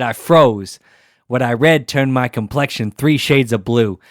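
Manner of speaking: put-on lyrics read in a loose Jersey accent. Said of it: "Can you do it in a Jersey accent".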